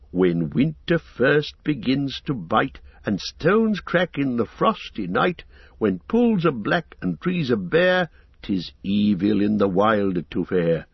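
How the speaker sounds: slow, measured rhyme; recited verse. Acted. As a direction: recite it like an old rhyme, slowly.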